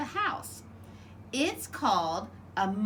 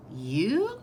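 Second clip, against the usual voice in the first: surprised cry. Acted. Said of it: "cried Choco".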